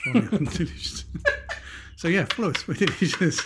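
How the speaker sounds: put-on a light Irish accent on the catchphrase. Asked to sign off in an Irish accent. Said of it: "That actually sounded quite like him".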